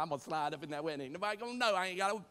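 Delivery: cheap wedding guest. Retold or imitated. Preacher mocking a cheap guest sneaking in. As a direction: play the freeloader bluffing his way in. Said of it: "Talking about".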